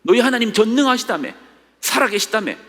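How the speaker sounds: high, sneering jeer at a believer; mocking taunt. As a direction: taunt the sufferer about his God. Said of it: "조롱하는 거예요". (조롱하는 비웃음 섞인 목소리)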